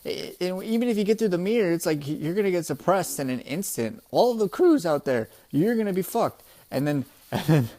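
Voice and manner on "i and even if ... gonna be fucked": higher-pitched retold indignation; lightly acted angry threat; mock pissed-off. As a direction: scold a traitor, half in earnest. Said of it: "getting pissed at Peckham".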